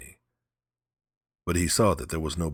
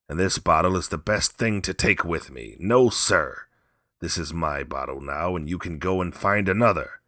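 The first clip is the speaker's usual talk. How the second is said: defiant taunt; 5 dB louder than usual. Acted. Drunk old man taunting Kiave.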